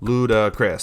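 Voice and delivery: A rapper's name said syllable by syllable, each one marked; syllables clapped out. Shown as a demonstration. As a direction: spell out the name like a schoolkid clapping beats. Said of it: "I always have to clap my hands when I do this".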